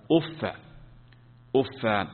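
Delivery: أف with the final fa opened, uffa; uff with open fa. Shown as a demonstration. Teacher showing students the fatha reading of uff. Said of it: "قول بفتح الفاء كيف تكون".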